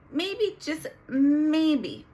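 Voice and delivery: tearful, pleading, slow and loud; voice breaking. Real, not acted. Telling viewers about hoping her mom would come, voice breaking. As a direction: her voice cracks as she hopes against hope.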